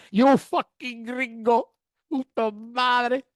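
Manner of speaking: slow, punchy mock insult; gangster taunt. Cartel man mocking the gringo, slow and punchy. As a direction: lean into each word. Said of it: "he starts laughing".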